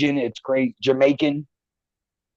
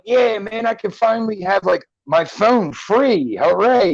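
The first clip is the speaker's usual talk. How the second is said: higher, drawn-out cheer; retold happy cheering, pitched up; mock delight; 6 semitones higher than usual. Retells own delight at computer.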